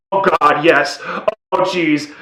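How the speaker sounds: mock awestruck fan exclamations; excited fanboys. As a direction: mimic thrilled fans reacting in a cinema. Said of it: "fanboys in my screen".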